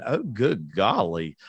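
mock sweet Southern phrase. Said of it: "like that".

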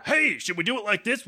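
silly high voice. Shown as a demonstration. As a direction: squeak it out like a different host.

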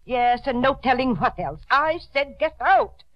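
an indignant demand, rising to a loud dismissal; angry order. Acted. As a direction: order them out, no argument allowed. Aunt furiously orders them out.

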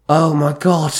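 building from dismay to a loud, high cry; escalating outcry. A narrator's reading. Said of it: "Alyssa cried out".

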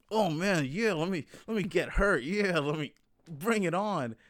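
hammed-up eager cheer, slowing at the end; mock eagerness. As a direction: play someone absurdly keen for it. Mock eager person wanting hurt.

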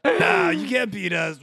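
high shouted boast; cocky bro shout. Acted. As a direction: brag like a cocky gladiator.

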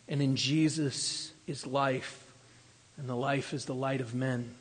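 preacher turns hushed and reverent; hushed reverence. Acted. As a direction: let the words settle quietly in awe.

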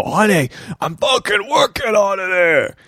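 half-joking shouted comeback; exasperated shout. Retold or imitated. Retorting to Tasha.

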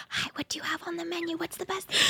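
hushed, hurried whisper. Retold or imitated. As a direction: imitate diners whispering over a menu. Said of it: "He said they were whispering".

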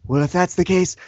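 lightly voiced cocky Irish fighter; mocking Conor McGregor. Fighter taunting his promoter in a lightly voiced cocky tone. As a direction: sneer back at the boss.

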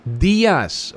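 "días" set apart by a pause; stress on DÍAS. Shown as a demonstration. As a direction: land "días" on its own, emphatically. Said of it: "fíjese en que la Biblia dice". (énfasis en "días", tras una pausa)

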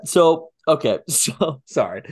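giggling through the words; trying to stop laughing; still laughing. Real, not acted. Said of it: "I'm still laughing".

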